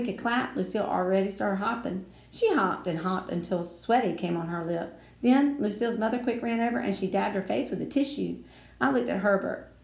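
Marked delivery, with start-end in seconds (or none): none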